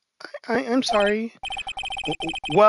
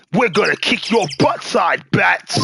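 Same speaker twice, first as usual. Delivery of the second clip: thug voice. Acted. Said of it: "Thug voice".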